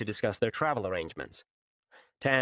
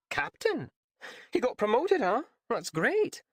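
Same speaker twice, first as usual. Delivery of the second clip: put-on lightly raised, hesitant young woman; flustered Raylan; 13 semitones higher than usual. A narrator's reading. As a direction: stumble through the embarrassing tale. Raylan pleased.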